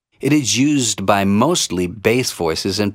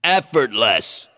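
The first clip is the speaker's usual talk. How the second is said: vocal fry; slower than usual. Shown as a demonstration. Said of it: "use this vocal fry to add texture".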